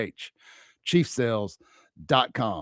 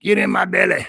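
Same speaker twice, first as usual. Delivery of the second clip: high, far-off goofy voice; a hammed-up cartoon growl; silly belly voice; 8 semitones higher, 4 dB louder than usual. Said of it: "gotta come from the belly".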